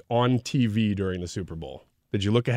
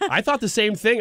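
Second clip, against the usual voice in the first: laughing; 9 semitones higher than usual. Real, not acted. Amused agreement, laughing.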